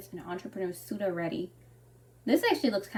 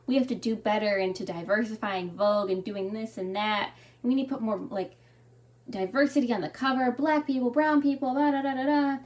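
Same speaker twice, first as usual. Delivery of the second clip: mocking Anna Wintour; 2 semitones higher, 3 dB louder than usual. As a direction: parody a self-important editor. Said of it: "how she has".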